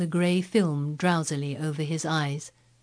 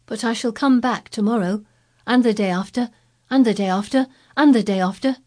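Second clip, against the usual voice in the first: higher, each repeat louder; eager boy, building; 5 semitones higher, 6 dB louder than usual. Acted. Colin voiced, rising hope.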